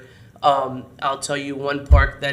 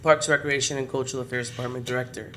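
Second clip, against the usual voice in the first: hoarse voice; faster than usual. Real, not acted. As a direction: voice going hoarse, worn out. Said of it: "I'm losing my voice".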